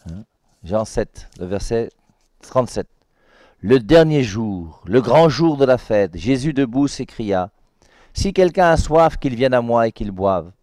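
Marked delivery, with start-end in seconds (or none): 3.6-10.5 solemn proclaimed reading. Shown as a demonstration. Preacher reading aloud the cry of Jesus at the feast, loud and slow. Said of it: "Je reprends".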